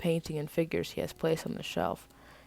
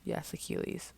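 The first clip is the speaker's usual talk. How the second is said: submissive; 9 dB quieter than usual. Acted. Submissive reply to commanding elder.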